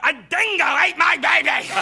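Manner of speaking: mock Aussie accent on a famous film line; Meryl Streep. Comic mimicking a film star for an Australian audience, mock Aussie accent. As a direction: put on a hammed-up Australian accent. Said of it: "nailed the Aussie accent".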